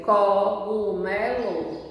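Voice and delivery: "cogumelo" slowly pronounced co-gu-me-lo; sounded out. Shown as a demonstration. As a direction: stretch each syllable of "cogumelo". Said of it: "é só pronunciar".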